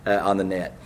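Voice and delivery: hurried aside to get done; speaking fast. Real, not acted. Preacher apologizing to listeners for rushing to get done, speaking fast. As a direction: rush through it to finish. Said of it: "I'm speaking so fast".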